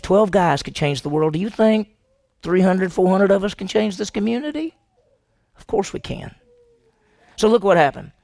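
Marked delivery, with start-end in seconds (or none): 5.6-6.3 whisper. Real, not acted. Answers his own rhetorical question.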